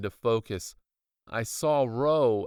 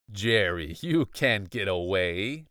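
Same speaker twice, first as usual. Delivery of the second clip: villain cry; 3 semitones lower than usual. Acted. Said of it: "Doctor Shriek cried".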